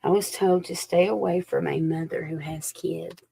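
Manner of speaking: hushed, secretive whisper; confiding whisper to the viewer. Real, not acted. Whispered confidential psychic message.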